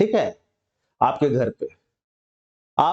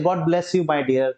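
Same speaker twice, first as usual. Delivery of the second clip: slow blessing; much slower than usual. Shown as a demonstration. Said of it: "तो आप बोल सकते हैं".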